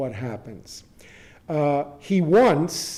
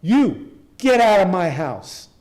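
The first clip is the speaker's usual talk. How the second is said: retold yell; 3 semitones higher, 5 dB louder than usual. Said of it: "he starts yelling".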